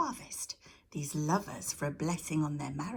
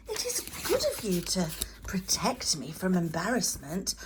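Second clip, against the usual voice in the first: soft low goddess; 3 dB louder than usual. Acted. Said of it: "Her voice was soft and low".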